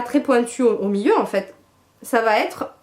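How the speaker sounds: talking through hiccups; hiccupping mid-sentence. Real, not acted. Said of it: "j'ai le hoquet en plus".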